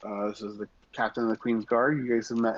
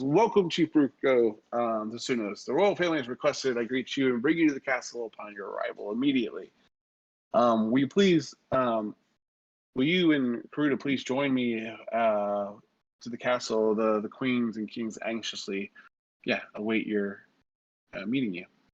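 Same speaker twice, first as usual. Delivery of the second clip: ordinary talk, nothing marked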